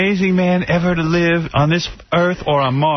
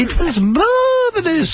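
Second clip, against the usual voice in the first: high, slow, drawn-out mock Aussie gush; hammed-up Australian accent; slower than usual. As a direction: gush it like a parody of an Australian starlet. Mocking Nicole Kidman clip.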